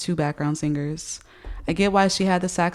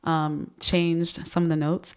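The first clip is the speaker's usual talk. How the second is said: wearing a retainer. Real, not acted. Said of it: "if I sound funny, it's because I have my retainers in".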